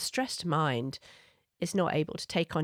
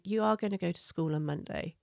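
firm loving limit; 3 dB quieter than usual. Shown as a demonstration. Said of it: "firmly and lovingly holding that limit".

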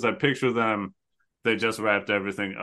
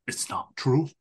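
anguished denial. Retold or imitated. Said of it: "The way that Sarabi says it".

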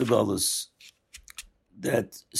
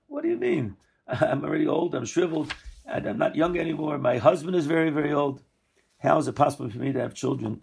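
incredulous; 3 semitones higher than usual. Acted. Sarah hearing she will have a child, incredulous. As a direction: scoff at the news with a laugh, mild disbelief. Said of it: "then she's incredulous".

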